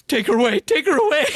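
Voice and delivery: high, loud panicked mock yell; mock scream. Woody yelling at Laura in the theater, high panicked mock scream. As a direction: shriek it like a frantic dad. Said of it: "He starts screaming".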